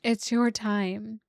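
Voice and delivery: slow, gentle, settled restatement. Real, not acted. Softer repeat after laughing.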